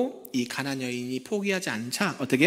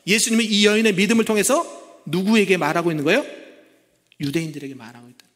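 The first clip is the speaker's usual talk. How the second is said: louder, higher pleading appeal; fervent preaching; 5 semitones higher, 5 dB louder than usual. Acted. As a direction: urge the congregation passionately. Preacher rises in fervour.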